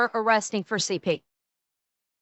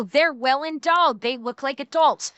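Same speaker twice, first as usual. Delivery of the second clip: mocking excuse. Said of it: "trying to do the excuse of".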